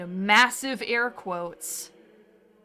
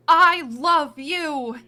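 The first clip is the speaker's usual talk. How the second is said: dying seagull yell; 4 semitones higher, 6 dB louder, much slower than usual. Retold or imitated. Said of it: "like a dying seagull under her breath".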